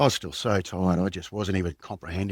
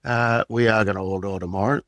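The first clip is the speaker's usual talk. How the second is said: jokey doom announcement, starting much louder and higher; mock-ominous joke; 3 semitones higher, 6 dB louder than usual. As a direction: tease the table like a spooky prophet. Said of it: "I just made a joke to the table".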